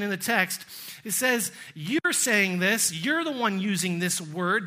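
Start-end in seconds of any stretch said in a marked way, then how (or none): 1.7-4.7 slowed opening with YOU'RE stressed. Acted. Jesus putting the word back on Pilate, stress on YOU'RE. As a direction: lean on each YOU'RE. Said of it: "The emphasis there falls on the you".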